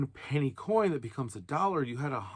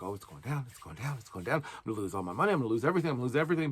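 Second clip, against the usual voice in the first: mock panic; much faster than usual. A nervous investor watching it fall, mock panicky. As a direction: play a nervous wreck, half-hearted.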